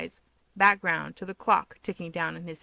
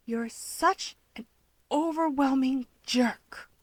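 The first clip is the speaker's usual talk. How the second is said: slow, drawn-out insult; sneering Toya; 5 semitones higher, slower than usual. Acted. Toya sneering at Keigo, slow contempt.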